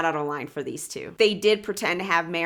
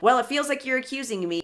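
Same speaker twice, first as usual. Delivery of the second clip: higher, quicker mock-defensive retort; imitated defensiveness; 6 semitones higher, faster than usual. Host mimicking Lisa answering an accusation, mock defensive. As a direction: imitate someone objecting to an accusation. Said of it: "And she's like".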